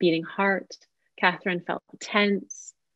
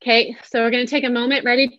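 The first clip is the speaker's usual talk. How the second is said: higher, light inviting cues; yes tone; 4 semitones higher than usual. Shown as a demonstration. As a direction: guide them gently and melodically. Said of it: "Let's do it again".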